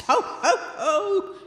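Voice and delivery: a goblin mocking him from behind; eerie echoing laugh. Unseen goblin mocking the sexton's laugh, loud and eerie. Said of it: "repeated a voice which sounded close behind him".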